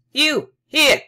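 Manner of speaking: high, loud startled outcry; startled cry. Acted. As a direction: blurt it out in shock. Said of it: "he said".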